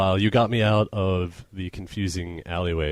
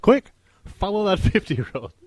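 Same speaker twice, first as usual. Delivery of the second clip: mock urgent order; 12 semitones higher, 3 dB louder than usual. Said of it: "she's like".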